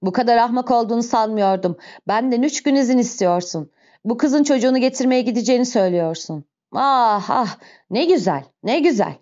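mock the request with angry disbelief; sarcastic, sneering outburst; scornful mockery. Javert scornfully mocks the request.

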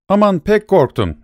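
high, sarcastic fake fear; a drunk laughing at the police chief; hammed-up scared voice; mocking fright. A narrator's reading. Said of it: "diye söylendi".

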